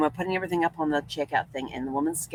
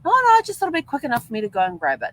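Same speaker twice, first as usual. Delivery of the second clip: louder, fast, offhand excuse; husband's breezy excuse; 6 semitones higher, 6 dB louder, faster than usual. Retold or imitated. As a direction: rattle it off casually. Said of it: "husband's reply in retold dialogue".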